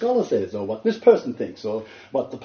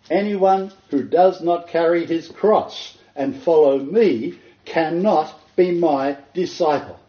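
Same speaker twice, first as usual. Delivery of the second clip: Kepha slow and raised, each word weighed; solemn scripture quote; 5 semitones higher, 5 dB louder, slower than usual. Retold or imitated. Preacher quoting Jesus to the crowds, slow and solemn. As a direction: read the verse slowly, with weight. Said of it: "he told the milling crowds".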